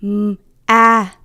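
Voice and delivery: Mm, ah, whispered sound by sound; whispered Mm then ah; sound isolation whispered. Shown as a demonstration. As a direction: breathe out Mm, ah, one sound at a time. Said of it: "let's listen to the middle".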